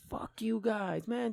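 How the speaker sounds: mocking, taunting tone.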